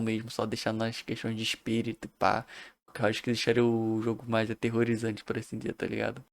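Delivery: drowsy, trailing off quietly; sleepy late-night mumble; nodding off. Real, not acted. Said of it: "eu tô morrendo de sono".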